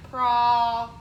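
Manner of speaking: Pro punched out loud, short O as ah. Shown as a demonstration. Teacher isolating the vowel in problem, short O. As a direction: hit Pro hard. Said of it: "The O is saying ah".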